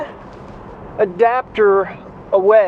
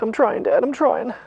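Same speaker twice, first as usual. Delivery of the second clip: voicing the dog; 3 semitones higher, 3 dB quieter than usual. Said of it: "She's like".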